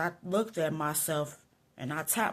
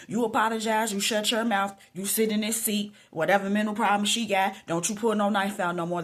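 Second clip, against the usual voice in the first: louder, firm list of retold orders; stern commands; 2 semitones higher, 5 dB louder than usual. Quoting God's instructions to the angry speaker, stern commands. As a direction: lay down each order with force.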